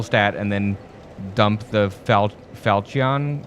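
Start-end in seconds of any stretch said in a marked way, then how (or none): 2.5-3.4 Falchion with a hard CH, FAL-chee-on; trial pronunciation. Shown as a demonstration. Player guessing at the sword's name, unsure pronunciation. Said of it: "I've always pronounced it Falchion".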